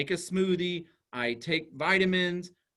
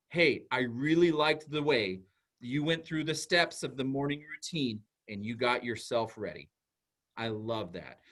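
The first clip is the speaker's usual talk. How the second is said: gentle praise; 4 semitones lower than usual. Shown as a demonstration. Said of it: "when you're describing behavior".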